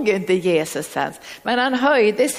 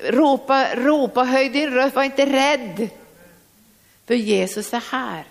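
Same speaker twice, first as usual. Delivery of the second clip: fervent call; 4 semitones higher than usual. Shown as a demonstration. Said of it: "jag hör idag".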